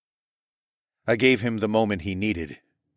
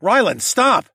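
loud, raised call after someone running off; higher, urgent shout; yell; 12 semitones higher, 8 dB louder than usual. A narrator's reading. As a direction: call out loudly to stop them. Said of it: "I yelled again".

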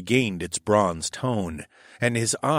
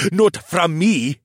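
laughing defiance; 9 semitones higher, 6 dB louder, slower than usual. A narrator's reading. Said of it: "he laughed".

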